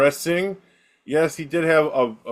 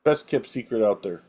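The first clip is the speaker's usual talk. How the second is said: low mock posh British; British accent; 3 semitones lower, faster than usual. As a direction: play the stiff Brit. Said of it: "bad British accents".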